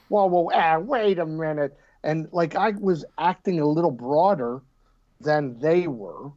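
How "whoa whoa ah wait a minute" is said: cartoon double take. Shown as a demonstration. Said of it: "I had to kinda do double takes".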